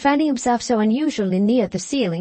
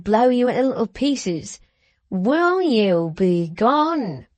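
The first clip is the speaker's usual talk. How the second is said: menacing dwarf with drawn-out key words; malicious dwarf driving someone off; threatening dwarf; slower than usual. Acted. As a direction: relish every threat.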